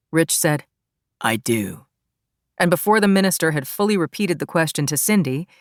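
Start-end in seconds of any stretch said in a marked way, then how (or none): 1.2-1.9 groom's vow. A narrator's reading. Groom answers his wedding vow.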